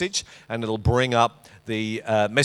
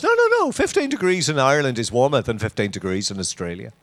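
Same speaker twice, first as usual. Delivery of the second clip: put-on Irish accent; 2 semitones higher, faster than usual. Mother-in-law correcting her son-in-law, mock-insistent Irish accent. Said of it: "has to be said with an Irish accent".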